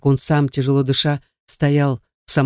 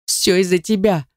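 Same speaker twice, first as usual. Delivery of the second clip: higher, upset accusation; mildly tearful reproach, pitched up; sobbing; 4 semitones higher than usual. A narrator's reading. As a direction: blame him as if near tears. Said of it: "всхлипнула, толкнув снова".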